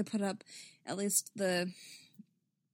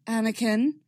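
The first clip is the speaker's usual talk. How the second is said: sighed-in, louder character call of a name; Obi-Wan voice; 6 dB louder than usual. Shown as a demonstration. Reader resetting the character voice after a sigh, imitated Obi-Wan. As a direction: copy another reader's take on the character. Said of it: "my Obi-Wan voice is my imitation".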